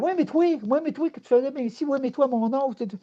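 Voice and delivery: half-hammed brother's griping; mock complaining brother. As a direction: imitate the brother's nagging reproach. Brother reproaching him in story.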